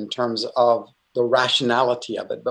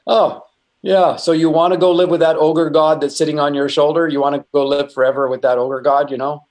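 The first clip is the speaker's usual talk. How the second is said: imitating an incredulous reply, pitched up and louder; mock incredulous retort; 2 semitones higher, 4 dB louder than usual. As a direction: scoff at the idea in disbelief.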